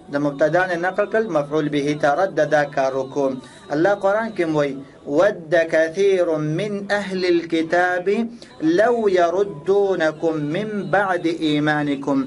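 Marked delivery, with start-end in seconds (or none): 5.2-12.2 slow Arabic recitation with long vowels; Quran recitation. Shown as a demonstration. Teacher quoting the Quran for grammar, slow recitation. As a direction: recite the verse slowly and evenly.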